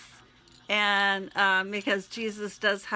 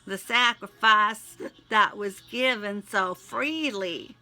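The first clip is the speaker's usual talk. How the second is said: pleading, prayerful read; heartfelt prayer; 3 dB louder than usual. Acted. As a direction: pour it out to God in prayer. Spoken prayer to God.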